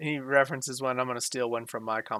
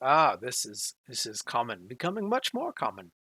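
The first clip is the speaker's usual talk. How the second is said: put-on animated British accent with swinging, swooping tune. Narrator voicing Socrates answering a question, in a British accent. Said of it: "in my best British accent".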